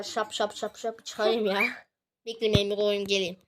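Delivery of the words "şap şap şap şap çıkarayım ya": smack the gum between words. Real, not acted. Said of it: "Ağzımda sakız var". (sakızı şapırdatarak)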